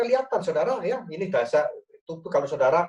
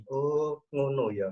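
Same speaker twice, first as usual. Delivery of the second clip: attentive acknowledging; 3 semitones lower than usual. Shown as a demonstration. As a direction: show your spouse you understand each word. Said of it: "orang Jawa bilang digongi".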